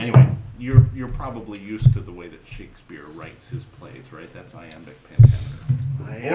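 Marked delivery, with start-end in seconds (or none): 4.3-6.3 slow Texan read of the phrase; mock Texan accent; Texas drawl. Shown as a demonstration. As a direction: say it like a Texan, slowly. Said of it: "like we're from Texas".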